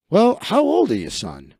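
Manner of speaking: lightly voiced coach questioning a recruit; a hint of a gruff American coach; American football scout.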